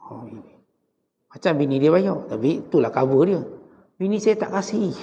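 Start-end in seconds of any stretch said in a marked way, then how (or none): 4.0-4.9 a lightly put-on husband voice, pitched higher, making the excuse; mock henpecked husband. Ustaz mimics the husband refusing a friend, sheepish put-on voice. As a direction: play a sheepish husband hiding behind his wife's "no".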